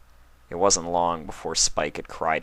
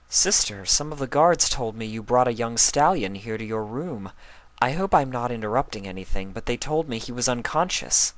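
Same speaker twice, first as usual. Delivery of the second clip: lightly voiced, slightly higher regal mare; Celestia, poised elder princess; 6 semitones higher than usual. Celestia asking Luna about the stallion, lightly teasing. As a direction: speak as a teasing older sister.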